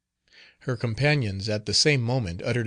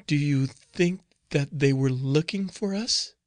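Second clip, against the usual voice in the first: put-on frightened young nun; 4 semitones higher than usual. Another nun, different voice.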